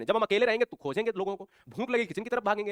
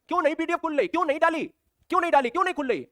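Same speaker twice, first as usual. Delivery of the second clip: mock student complaint; 6 semitones higher, faster than usual.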